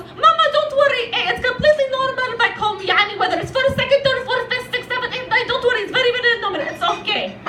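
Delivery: high, rattled-off Arab mother voice; mom's Arab accent. Acted. Mom reassuring daughter that dating cousins is normal, Arab accent. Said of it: "And my mom goes".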